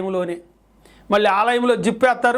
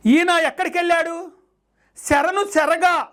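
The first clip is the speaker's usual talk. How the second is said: preaching; 6 semitones higher than usual. Acted. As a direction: proclaim it high, stretching key words. Preaches with raised voice.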